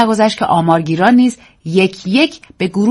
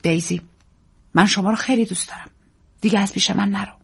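tender plea; 2 semitones higher, 5 dB quieter than usual. Acted.

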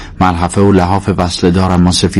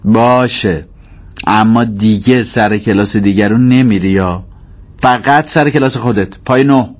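higher-pitched sour mother giving in; reluctant agreement through a pulled face; grudging consent; 4 semitones higher than usual. Acted. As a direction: give in while laying down a condition. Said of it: "صورتش را کج و کوله کرد و گفت".

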